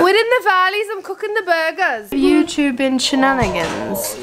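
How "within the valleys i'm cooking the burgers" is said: lilting Welsh valleys accent; Welsh accent attempt. Shown as a demonstration. Tipsy vlogger practising for the camera, Welsh accent. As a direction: put on a sing-song Welsh valleys voice. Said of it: "why can't I do the Welsh accent".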